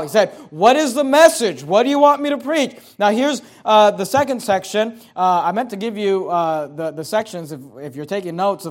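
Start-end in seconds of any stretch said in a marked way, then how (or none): 0.5-2.8 higher-pitched, urgent preacher's question; acted calling out. Preacher voicing John asking what to preach, acted calling out. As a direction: call out as the prophet seeking orders. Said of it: "I want you to be loud".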